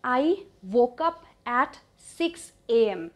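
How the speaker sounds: slow, evenly spaced words; measured, deliberate dictation; slow teaching model. Shown as a demonstration. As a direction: present the sentence slowly for learners. Teacher models sentence slowly.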